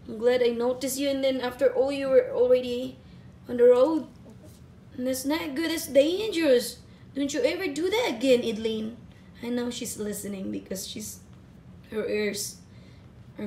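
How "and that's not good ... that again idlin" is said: firm but loving telling-off; tender scolding. Real, not acted. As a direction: scold the dog gently but firmly. Mother scolding pet for running off.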